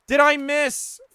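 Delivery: high, loud curse at a miss; angry outburst. Real, not acted. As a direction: blurt it out in disgust. Missed again.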